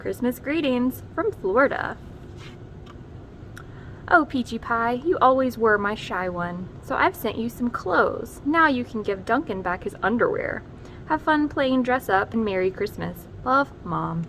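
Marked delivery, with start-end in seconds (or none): 4.1-14.2 a lightly voiced loving mother reading her letter; mom's letter voice. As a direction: read it like a fond mom writing home.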